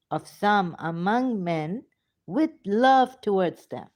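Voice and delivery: loud, stretched-out declamation; scripture recitation. Acted. Speaker proclaiming Ibrahim's prayer to listeners, loud slow recitation. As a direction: proclaim each phrase with force and pauses.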